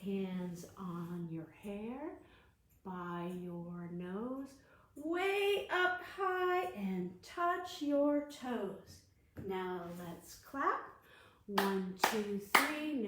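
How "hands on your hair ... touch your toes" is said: action rhyme. Shown as a demonstration. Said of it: "movement rhyme led for kids".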